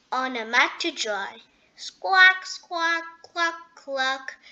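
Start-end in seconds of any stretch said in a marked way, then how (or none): 1.7-4.4 higher squawks easing into clucks; cackling hen. A narrator's reading. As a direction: imitate a flustered hen. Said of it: "she cackled".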